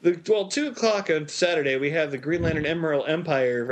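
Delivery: a touch of the radio host; announcer voice. Shown as a demonstration. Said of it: "I did work in radio".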